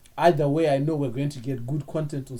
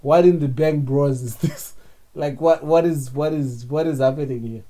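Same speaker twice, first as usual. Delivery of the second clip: loud, incredulous what in the Bang Bros; baffled outcry; 6 dB louder than usual. Real, not acted. Co-host reacting to the baby sis text, loud disbelief.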